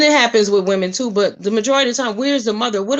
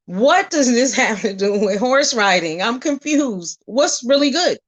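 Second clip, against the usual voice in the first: breaking into a laugh mid-question; amused, baffled question. Retold or imitated. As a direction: ask it half laughing in disbelief. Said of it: "I was like".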